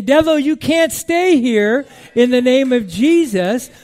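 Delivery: loud, forceful command to the devil; commanding rebuke. Acted. Preacher showing congregation how to order the devil out, commanding rebuke.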